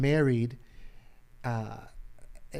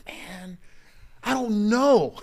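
sheepish shrug; 8 semitones higher, 4 dB louder, slower than usual. Retold or imitated. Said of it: "And I was like".

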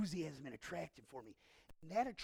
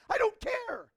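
loud dismissal; 11 dB louder than usual. Acted. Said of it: "He's like".

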